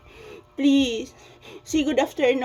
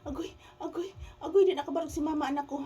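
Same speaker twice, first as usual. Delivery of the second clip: softer, high fake sob; mock sobbing; 4 semitones higher, 7 dB quieter, much faster than usual. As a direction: whimper it like a pretend cry. Pretend weeping lament, softer. (pakunwaring paghilak)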